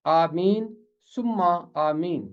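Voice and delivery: आमीन सुम्मा आमीन with long 'ee': aa-meen; Arabic pronunciation. Shown as a demonstration. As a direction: say आमीन सुम्मा आमीन the Arabic way, 'aameen summa aameen'. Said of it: "ये अरबी अंदाज है".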